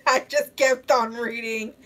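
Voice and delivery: talking through real laughter; laughing. Real, not acted. Streamer apologizing to chat while still laughing. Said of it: "I'm over here laughing".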